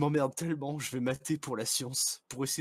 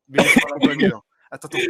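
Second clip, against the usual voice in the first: high pitched modulated voice; filtered through a voice changer; 7 semitones higher, 14 dB louder, faster than usual. Shown as a demonstration. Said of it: "J'ai un modificateur de voix".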